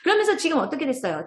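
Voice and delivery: ordinary talk, nothing marked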